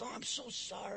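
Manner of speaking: meek apology; apologetic. Retold or imitated. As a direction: hush it like a sorry stranger. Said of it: "he immediately says".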